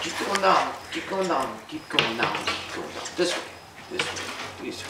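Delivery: fading from coaxing to breathy hush. Real, not acted. Guiding bird down the stick.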